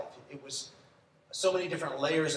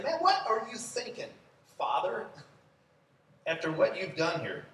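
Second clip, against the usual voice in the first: incredulous questioner; 5 semitones higher than usual. Pretend. Pastor voicing bewildered listener.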